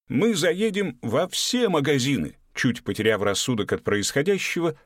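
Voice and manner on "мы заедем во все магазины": eager promise. A narrator's reading. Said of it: "пообещал Гоша".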